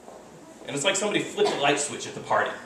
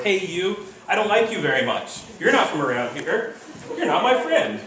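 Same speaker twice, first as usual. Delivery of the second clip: mock chimp taunts; 3 semitones higher, 4 dB louder than usual. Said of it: "they're screaming back and forth".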